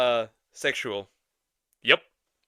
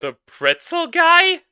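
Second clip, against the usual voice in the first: put-on pretzel guy in New York accent; New York street vendor voice; 14 semitones higher, 6 dB louder, slower than usual. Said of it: "in a New York accent also".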